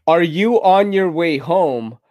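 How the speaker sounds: slow, deliberate words for voice typing; voice dictation. Shown as a demonstration. Dictating a text to his girlfriend, slow and deliberate. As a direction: spell it out clearly for the phone to catch. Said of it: "let me do it in a voice chat way".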